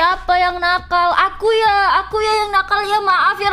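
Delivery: pleading friend. Retold or imitated. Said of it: "teman gue nanya, nge-spam gitu".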